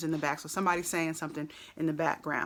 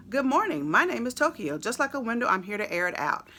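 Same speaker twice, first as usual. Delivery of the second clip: a touch higher and louder, rapped like the track; imitating the rapper's line; 5 semitones higher, 3 dB louder than usual. Reading lyrics to viewers, mock rapper delivery. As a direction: mimic the rapper's bouncy delivery. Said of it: "the way that he said that".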